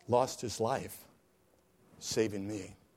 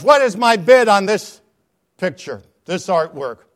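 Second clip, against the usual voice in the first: auctioneer; 7 semitones higher, 16 dB louder than usual. Acted. Auctioneer calls for bids.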